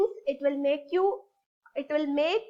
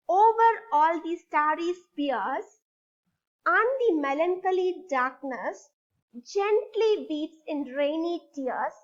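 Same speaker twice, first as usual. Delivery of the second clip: poem recitation. Shown as a demonstration. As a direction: read the stanza for the class to follow. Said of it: "start reading with me".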